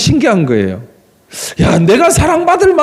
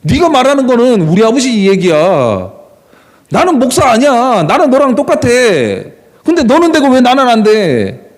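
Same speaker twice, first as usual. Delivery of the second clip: 어린 시절의 당돌한 항변을 흉내 내며; 기죽지 않고 따지듯이; 당당한 말대꾸. Retold or imitated. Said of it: "저는 당당하게 이야기했어요". (아이의 당당한 항변을 재연)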